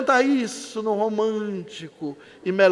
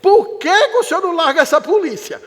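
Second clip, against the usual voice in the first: put-on higher, louder child's plea; little daughter's voice; 7 semitones higher, 3 dB louder than usual. Daughter asking her father to quit the police, childlike. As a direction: plead like a small girl. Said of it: "a filha disse assim".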